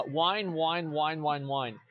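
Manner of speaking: sing-song mock whining, trailing off; mocking whine. Streamer mocking forum whiners with a droning whine. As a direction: taunt the whiners with a fading drone.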